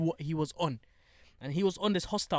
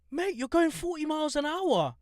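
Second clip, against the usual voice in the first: high-pitched, retold friendly objection; friendly protest; 11 semitones higher, 3 dB louder than usual. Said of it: "I was very friendly".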